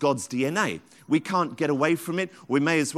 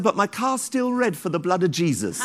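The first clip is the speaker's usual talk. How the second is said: imitated shout; 3 semitones higher than usual. Rachel's punchline about her car.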